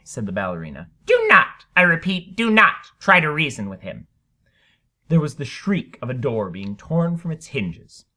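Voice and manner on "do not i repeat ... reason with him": urgent warning. Acted. Ballerina warns viewers on TV.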